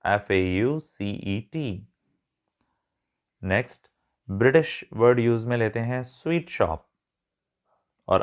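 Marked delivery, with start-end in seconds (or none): 0.1-1.9 faucet spelled letter by letter, slowly: एफ़ ए यू सी ई टी; slow letter-by-letter spelling of एफ़ ए यू सी ई टी. Shown as a demonstration. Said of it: "American इसे कहते हैं faucet".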